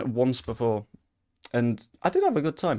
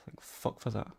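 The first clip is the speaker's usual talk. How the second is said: breathy whispered relief, much softer; relieved whisper; 2 semitones lower, 10 dB quieter than usual. Real, not acted. Streamer relieved the attack failed, whispered. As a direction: sigh it out in relief. Relief after danger passes.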